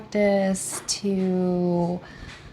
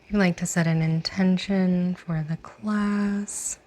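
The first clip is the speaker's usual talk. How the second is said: guided meditation. Real, not acted. Yoga teacher inviting class to set an intention, guided meditation. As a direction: lead them gently inward, lingering on the phrase endings.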